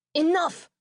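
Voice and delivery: mother yelling at a reporter before hanging up; screaming mother. Retold or imitated. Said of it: "she screamed into the receiver".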